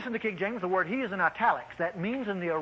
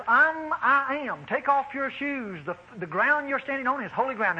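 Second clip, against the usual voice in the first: voice of God; 5 semitones higher than usual. Retold or imitated. God speaks from burning bush.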